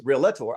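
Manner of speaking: "realtor" as REE-leh-tor, with an extra vowel; wrong three-syllable pronunciation. Retold or imitated. Trainer quoting sponsors who come into classes, three-syllable "realtor". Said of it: "they use realtor".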